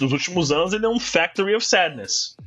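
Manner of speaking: English words with a native American accent. Real, not acted. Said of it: "Ô, sotaque gringo".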